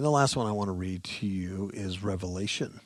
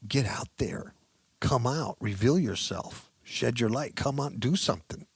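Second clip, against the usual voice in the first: raised pitch, insistent urging; urgent plea; 4 semitones higher, 4 dB louder than usual. Acted. Preacher voicing the psalmist's plea to God, urgent. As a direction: plead for action, pitched up and pressing.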